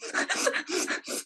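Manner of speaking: comic mock sobs, breathy bursts without words; imitated sobbing. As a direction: imitate a husband sobbing, half laughing. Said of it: "sobbing, it was so funny".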